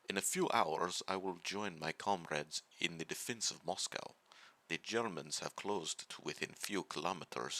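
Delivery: lightly put-on Russian accent, barely there; terrible Russian accent. Let's Player reading a Soviet recruit's diary aloud, in a weak mock Russian accent. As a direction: read the soldier's diary in a half-hearted Russian accent. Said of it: "I'll do my Russian voice again, even though it's terrible".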